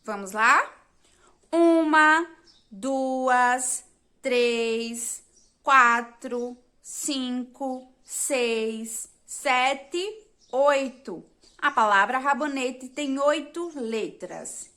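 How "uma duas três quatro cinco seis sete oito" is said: counting aloud. Shown as a demonstration. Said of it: "Vamos começar contando".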